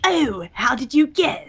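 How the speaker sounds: slow, put-on Discord voice. German friend answering a wrong guess, slow imitated voice. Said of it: "talking in the Discord A N Y voice".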